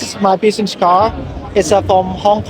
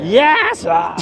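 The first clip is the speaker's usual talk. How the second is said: shouted yes; 2 semitones higher than usual. Pretend. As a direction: fire off "Yes" with guts. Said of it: "grab your Chinese balls and say, "Yes".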